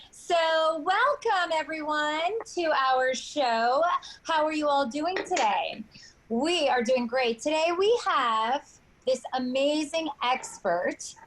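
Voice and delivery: game show host. Acted.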